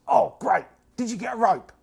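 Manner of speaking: high, loud hopeful question; cultist voice. Acted. Cultist asks the party about a rope, high and eager. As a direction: perk up and ask eagerly.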